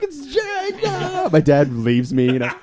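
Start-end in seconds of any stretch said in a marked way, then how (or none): 0.0-1.3 squeaky falsetto mockery; hammed-up high squeak. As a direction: pitch way up like a cartoon kid. Mock voice in retold exchange.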